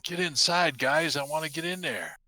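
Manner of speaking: lightly voiced straggler. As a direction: urge the group on in a light voice. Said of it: "You hear a light voice".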